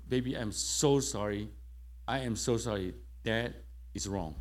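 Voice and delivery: sorry and humbled, easing down; repentant apology. Retold or imitated. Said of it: "Oh, I was repented".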